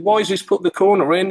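high amateur Scouse imitation; retold in a mock Scouse accent; Tony Warner, rough Scouse. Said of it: "This Scouse accent. I'm not good with Scouse accents".

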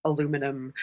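General American, low and steady; General American accent. Shown as a demonstration. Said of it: "you can do a kind of general American".

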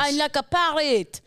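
botched mimicry that turns French; accidental French accent. Parroting the co-host, badly, in a French-tinged accent. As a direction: badly copy it with a French twist. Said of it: "That was French".

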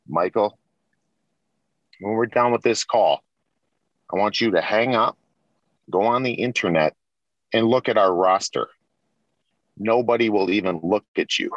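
a light, measured Italian-accented impression; lightly Italian-accented, with long pauses between phrases; best Italian voice. Team owner reassuring Michael about the roster, lightly voiced Italian accent. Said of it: "I'll do my best Italian voice".

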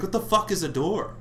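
high, baffled squawk of a question; baffled Cain. Retold or imitated. Cain baffled by God's sin-at-the-door talk, high and incredulous. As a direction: ask it totally lost and high. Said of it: "he's like".

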